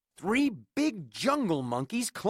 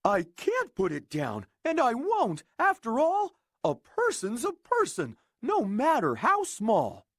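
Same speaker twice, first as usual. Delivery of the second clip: earnest elephant voice, a bit raised; Horton the elephant; 4 semitones higher than usual. Acted. Elephant promising the speck to keep it safe, earnest. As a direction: kind big elephant standing firm.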